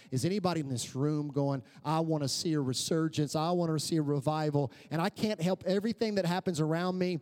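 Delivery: building, emphatic sermon appeal; rally the church, rising as you go; rallying preaching. Acted. Preacher urging the church toward revival, rallying and building.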